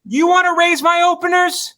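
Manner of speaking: high, incredulous mock protest; indignant challenge. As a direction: push it up into a comic squawk. Mock challenge, continuing the bit.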